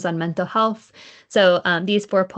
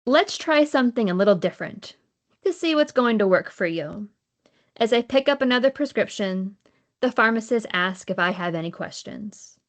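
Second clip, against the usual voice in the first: deliberate recital, each line lifted at the start; poetry reading with set-apart lines; poem reading; 3 semitones higher than usual. Acted. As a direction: read each line as verse, pausing between lines. Reads second poem at reading.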